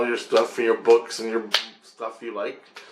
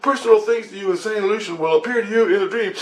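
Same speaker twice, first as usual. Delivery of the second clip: lightly voiced Grace; 9 semitones higher than usual. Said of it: "He goes".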